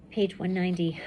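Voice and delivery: usual speaking voice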